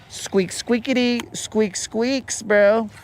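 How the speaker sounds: high hammed-up hamster squeaks; squeaky hamster voice. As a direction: squeak it like a cartoon hamster cracking a joke. Voicing Hammy the hamster.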